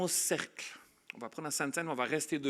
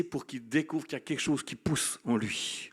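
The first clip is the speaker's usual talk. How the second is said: whisper; 2 semitones higher than usual. Acted. Hushed moment in sermon.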